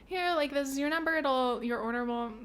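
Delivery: mock cashier voice. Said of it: "giving it to people and being like".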